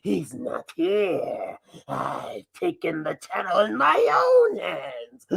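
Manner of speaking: lightly voiced masked alter ego, playful; a mischievous mask character hijacking the channel; Mascot persona voice. Masked Mascot taking over Dave's channel, mischievous. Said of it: "I'm not Dave. I'm Mascot".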